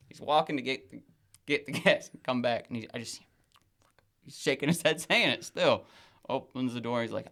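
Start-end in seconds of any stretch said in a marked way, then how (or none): none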